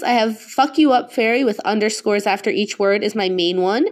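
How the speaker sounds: usual speaking voice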